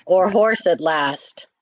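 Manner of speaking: slow, tongue held down; holding tongue with fingers. Shown as a demonstration. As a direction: say it with your tongue pinched. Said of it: "You hold your tongue and say".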